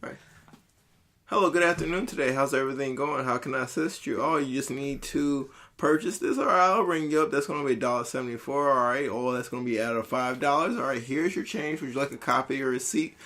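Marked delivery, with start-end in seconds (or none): 1.2-13.1 lightly put-on customer service voice; a hint of preppy front-desk cheer; preppy white voice. Shown as a demonstration. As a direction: ham it up a little, like a polite clerk.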